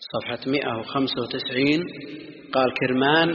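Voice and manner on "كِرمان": كرمان with an i after k, "Kirman"; kasra on kaf. Shown as a demonstration. Teacher reads the author's note on his homeland, كرمان with kasra, "Kirman". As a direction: say the first vowel of كرمان as i: "Kir". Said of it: "بكسر الكاف".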